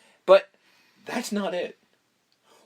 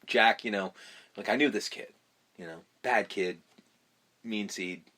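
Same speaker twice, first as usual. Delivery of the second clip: Joker impression; 4 semitones lower than usual. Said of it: "he's just like".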